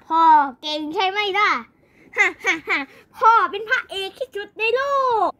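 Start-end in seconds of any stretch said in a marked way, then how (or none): 2.2-2.8 staccato hero's ha-ha; hammed-up victory chuckle; boastful laugh. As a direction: laugh proudly at your own feat. Boasting hero laughs after victory.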